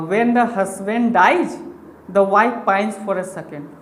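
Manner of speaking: slow, measured reading of the saying; slow recitation. Shown as a demonstration. Teacher reciting his old teacher's saying, slowly. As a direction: read the line word by word. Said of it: "मेरे teacher हमेशा ये बताया करते थे".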